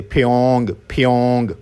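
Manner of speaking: फ्योंग said open-mouthed, from the throat; Korean word from the throat. Shown as a demonstration. Teacher shows students a Korean word, open throat. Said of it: "मुंह खोल के बोलना है गले से".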